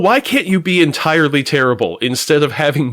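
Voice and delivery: ordinary talk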